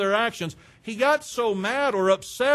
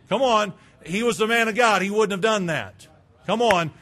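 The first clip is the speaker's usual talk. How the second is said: louder, pleading come on; rally them with indignant disbelief; loud protest; 5 dB louder than usual. Real, not acted. Preacher defending Nehemiah to his church, loud.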